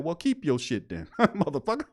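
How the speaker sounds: half-laughing comeback, starting fast; tossed-off retort breaking into a laugh; laughing mock retort.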